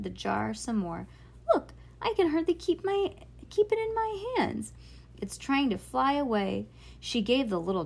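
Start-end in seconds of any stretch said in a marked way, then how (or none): 1.5-6.7 put-on high, eager girl's voice, raised pitch; excited girl. A narrator's reading. Ivy to Bean, showing off the potion, high and eager. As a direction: show off the jar like it's magic.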